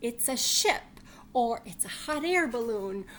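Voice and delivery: excited bunny. Acted. Bunny lists imagined things.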